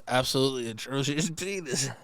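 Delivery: steady reading that cracks at the end; breaking into laughter. Real, not acted. Host retrying the email line, breaking into laughter. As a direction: hold it together until the last words, then laugh. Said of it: "I'm laughing at the words".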